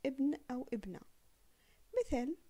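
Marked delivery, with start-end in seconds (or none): 0.1-1.0 ابن and ابنة each opened with a clear "i"; with the hamza. Shown as a demonstration. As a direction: sound the first alif in ابن أو ابنة. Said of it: "فقلنا". (ابن أو ابنة بنطق الهمزة)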